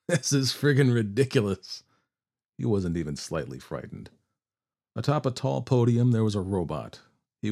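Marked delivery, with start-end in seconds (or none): 0.1-1.8 scoffing outlaw voice; Billy voice. A narrator's reading. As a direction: sneer it like a tough cowboy.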